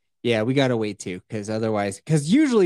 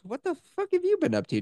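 excited; 3 dB quieter, faster than usual. Real, not acted. Excited rapid question.

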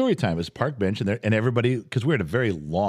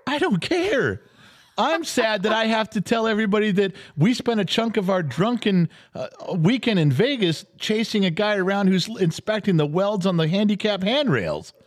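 much higher, worked-up indignant rant; mock outrage; 12 semitones higher than usual. Real, not acted. Ranting to the co-host about chasing a guy in Vegas, hammed-up indignation. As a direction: play up the outrage, pitch climbing high. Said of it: "Okay, calm down".

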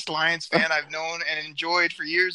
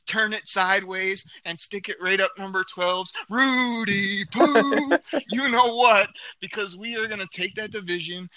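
shout; 3 semitones higher than usual. Real, not acted. Fired-up rant climax.

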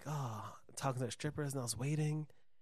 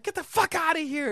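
high, loud imitation of a furious woman; loud mock screech of anger; retold angry yell; 6 dB louder than usual. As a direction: act out her yelling him away. Retold woman yelling at man.

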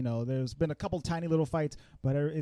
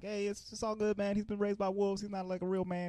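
placating wolf leader; 5 semitones higher than usual. Retold or imitated. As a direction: talk the villain down gently. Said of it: "the wolf pack leader, he steps up".

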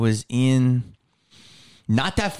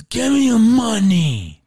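mugger's demand; 9 semitones higher, 7 dB louder, slower than usual. Retold or imitated. Mugger demands money, retold.

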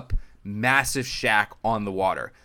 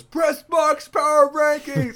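much higher, slow drawn-out shout; fan shouting; 5 dB louder, much slower than usual. Retold or imitated. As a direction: yell it across the parking lot. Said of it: "It goes".

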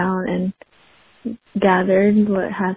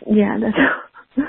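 slow, breaking into tears; holding back real tears; tearful; 2 semitones higher, slower than usual. Real, not acted. Caller ending her voicemail, slow and tearful. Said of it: "I'm trying so hard not to cry".

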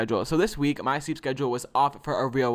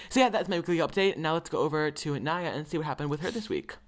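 news anchor. Real, not acted. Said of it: "I sound like a news anchor".

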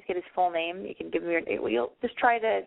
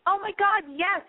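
thrilled yes; 11 semitones higher, slower than usual. Real, not acted. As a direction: burst out with real joy. Loves the girls' date idea.

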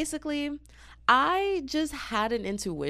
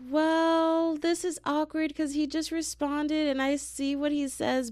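imitating Cameron; 9 semitones higher, slower than usual. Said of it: "Cameron was like".

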